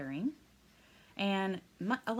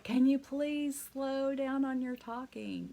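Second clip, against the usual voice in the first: imitating a student; 6 semitones higher, 3 dB louder, slower than usual. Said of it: "this one girl that was like".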